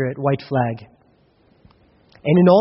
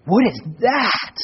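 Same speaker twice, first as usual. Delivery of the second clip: baffled; 5 semitones higher, slower than usual. Retold or imitated. Baffled at the new engine.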